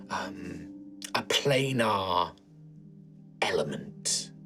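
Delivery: a slow, low, breathy whisper. Acted. The sister questions the companions in secret, a slow whisper. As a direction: speak like a tired old nun keeping secrets.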